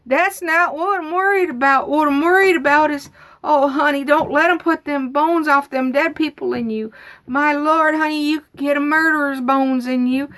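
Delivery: high, urgent fretting of an imitated aunt; worried carrying-on. Aunt warning the speaker about dead people's bones, worried carrying-on. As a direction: act out an aunt working herself up, pitched high. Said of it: "carrying on".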